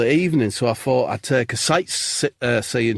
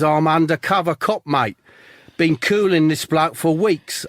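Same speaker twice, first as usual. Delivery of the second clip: a lightly put-on Australian accent; 5 semitones higher than usual. Undercover cop explains himself to the tourist in a hammed Australian accent. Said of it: "I've gone Australian, have I?".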